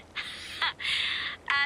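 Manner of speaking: short laugh mid-sentence; wry little chuckle. Acted. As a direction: let out a brief rueful laugh. Laughs before admitting bad news.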